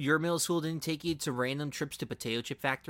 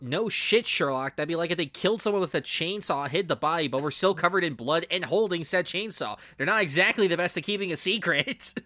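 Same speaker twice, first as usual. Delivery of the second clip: sarcastic retort; 5 semitones higher than usual. Acted. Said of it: "And I wrote".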